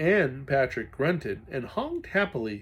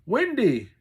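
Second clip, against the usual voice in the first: sobbing call; 10 semitones higher, 9 dB louder than usual. Acted. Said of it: "Toby sobbed".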